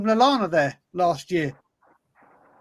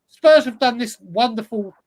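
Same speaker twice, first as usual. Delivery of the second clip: sarcastic; 4 dB louder than usual. Acted. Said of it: "I say that with the height of sarcasm".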